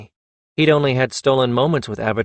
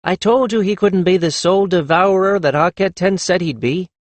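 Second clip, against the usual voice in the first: lopsided grin; 6 semitones higher than usual. A narrator's reading. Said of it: "with a lopsided grin".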